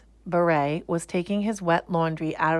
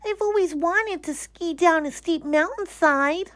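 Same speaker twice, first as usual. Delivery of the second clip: excited; 11 semitones higher, 4 dB louder than usual. Acted. Bear thinking the soap flakes are snow. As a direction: gasp with wonder. Corduroy voiced.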